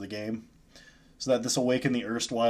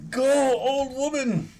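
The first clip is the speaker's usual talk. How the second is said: cheering; 12 semitones higher, slower than usual. Real, not acted. Cheering on his creature.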